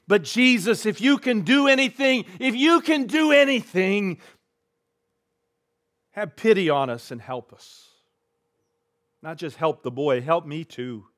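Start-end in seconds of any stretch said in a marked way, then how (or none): 0.1-7.9 pleading father. Acted.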